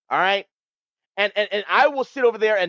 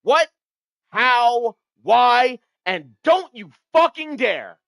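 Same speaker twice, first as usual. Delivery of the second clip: louder, higher chant for chat; call and response; 6 semitones higher, 5 dB louder, slower than usual. Shown as a demonstration. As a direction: lead chat in a shouted chant. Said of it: "Say it with me".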